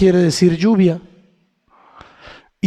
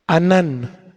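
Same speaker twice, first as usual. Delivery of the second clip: "anán" stressed on its last syllable; "anán", weight on the final -nán; stress on second A; 3 semitones lower than usual. Shown as a demonstration. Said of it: "con acento en la segunda A".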